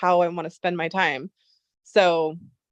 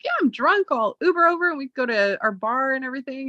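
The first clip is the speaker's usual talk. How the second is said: tipsy excited invite; 4 semitones higher than usual. Retold or imitated.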